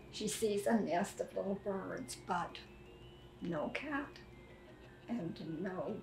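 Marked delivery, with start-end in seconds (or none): none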